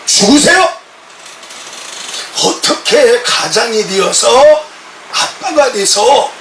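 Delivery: stern rebuke, slowing down on the accusation; retold angry scolding. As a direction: scold the father as if reliving it. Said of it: "제가 막 화가 나가지고".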